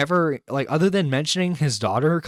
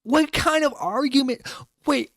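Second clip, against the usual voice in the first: much higher, disbelieving "what kind of argument"; incredulous; 12 semitones higher than usual. Real, not acted. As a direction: ask it as if it makes no sense. Incredulous at the clip.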